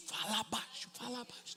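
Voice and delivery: quietly shushing someone nearby; hushed aside. Retold or imitated. Hushing a person at the salon, very quietly.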